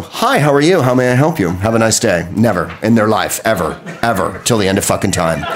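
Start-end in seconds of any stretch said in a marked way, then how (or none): 0.0-2.3 fake cheerful service. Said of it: "no English person would ever go".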